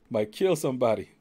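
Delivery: high-pitched panicky old man, lightly voiced; mock-fleeing pleas of an old chief; old chief's protest. Old chief fending off a succubus, high mock panic. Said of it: "he was like".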